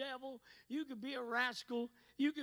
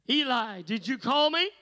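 put-on boy calls out louder, eager; eager Samuel calling out; 14 dB louder than usual. A narrator's reading. Boy Samuel runs in to Eli, calling out eagerly. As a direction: call out to Eli, a bit louder.

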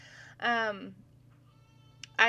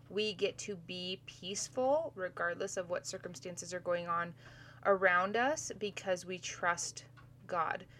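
swollen mouth. Real, not acted. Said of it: "if I sound weird".

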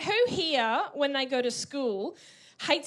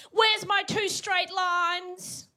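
slow, higher bossy demand; bossy teacher; 6 semitones higher, much slower than usual. Retold or imitated. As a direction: drag it out like a stern teacher. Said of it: "And they say".

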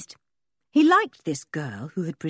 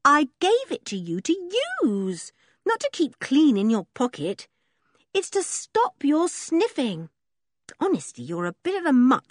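higher, exasperated scolding; scolding girl; 8 semitones higher than usual. A narrator's reading. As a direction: tell him off, half amused. George scolding Sniffer.

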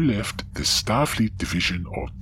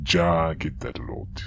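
put-on slow, Germanic-accented reply; Austrian-sounding accent. Counselor brushing off remark on accent, Austrian-sounding accent. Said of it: "Are you from Austria?".

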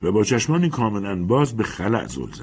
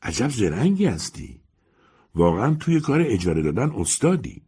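lightly admiring, higher gossip voice; 4 semitones higher than usual. Acted. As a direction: flatter her cleverness gently.

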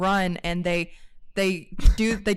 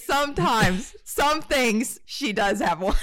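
amused retelling, voice lifted; imitating Jeremy; 3 semitones higher, slower than usual. Jeremy teasing about her accent, amused imitation. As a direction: quote him teasingly, through a laugh. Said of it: "And Jeremy goes".

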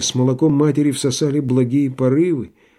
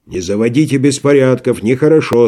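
наставительно. Acted. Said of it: "сказал наставительно Никита".

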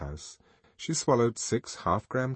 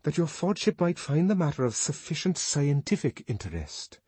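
nervous; 7 semitones higher than usual. Acted. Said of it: "stammered Bernard".

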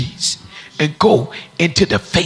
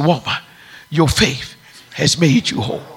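gentle blessing; 3 semitones lower than usual. Acted. Jesus gently blessing the woman.

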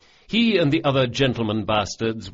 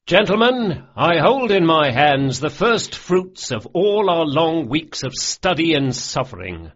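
much higher and louder, orating; grand announcement; 6 semitones higher, 6 dB louder than usual. A narrator's reading. Locke presenting the letter of credit to his crew, orating. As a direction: proclaim it like a showman.

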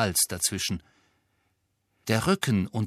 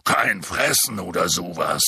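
eager Hagrid; 5 semitones lower, 4 dB louder than usual. Acted. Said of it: "sagte Hagrid eifrig".

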